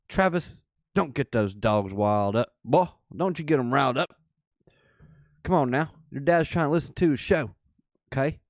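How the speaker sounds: loud half-joking scold of his son; calling out. Real, not acted.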